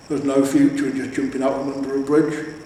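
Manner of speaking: a hint of a gruff troll musing; mildly voiced troll. Troll's voice in the reading.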